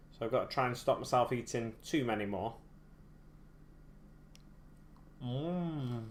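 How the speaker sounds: talking while crunching a biscuit; chewing a biscuit between words. Real, not acted. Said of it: "Can you hear me crunching".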